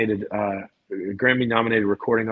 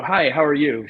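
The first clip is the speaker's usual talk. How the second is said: cheery greeting; 4 semitones higher, 4 dB louder than usual. Retold or imitated. Greets a lady at the door.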